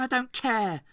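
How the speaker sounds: repeated angry shout "I don't care"; shouted again. Acted. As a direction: throw "I don't care" back at him. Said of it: "shouted Boyle".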